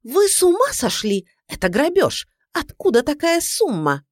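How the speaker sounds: high, loud outraged protest. A narrator's reading. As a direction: accuse him of robbery. Client outraged at the bill. (возмущённо, громко и высоко)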